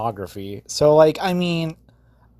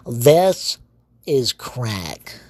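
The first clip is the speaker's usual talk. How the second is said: Pee Wee Herman; much slower than usual. Retold or imitated. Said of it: "I sound like fucking Pee Wee Herman".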